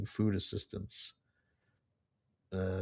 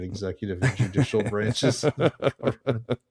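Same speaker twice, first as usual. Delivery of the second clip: laughing through words; 4 dB louder than usual. Real, not acted.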